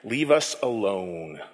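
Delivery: low, slow, soft plea; pleading. A narrator's reading. Townspeople pleading with Jesus to leave, slow and soft. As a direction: beg them quietly to go. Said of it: "they pleaded".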